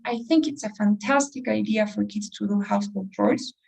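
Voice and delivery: emphasize the word "fantastic"; stress on FANTASTIC. Shown as a demonstration. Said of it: "I'm emphasizing on the word fantastic".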